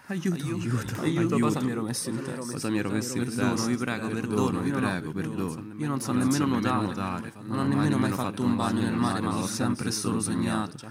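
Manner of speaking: conchiglie in panico, voce più alta; grida d'aiuto. Acted. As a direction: piccole voci spaventate che implorano. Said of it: "gridare forte". (conchiglios che gridano aiuto, voce acuta e impaurita)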